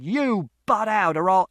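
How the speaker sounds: high, loud, slow threat, cut off; threatening shout. A narrator's reading. Father threatening Mister Shears, threatening shout. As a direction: growl a threat at top volume. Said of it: "And Father shouted".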